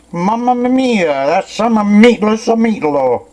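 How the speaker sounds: high, loud delighted exclamation; excited. Real, not acted. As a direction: burst out in delight, slowly. Exclaims on tasting meatloaf.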